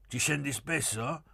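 high, lively teasing questions; cheerful. A narrator's reading. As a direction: ask it merrily, pitched well up. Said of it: "Pieretto disse allegro".

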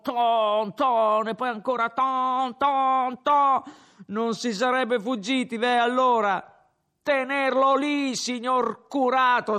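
high, loud rabble-rousing shouts; tipsy slogan shouting; drunken crowd slogans. Acted. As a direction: shout like he's back in the riot.

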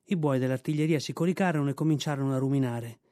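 ordinary delivery, nothing marked

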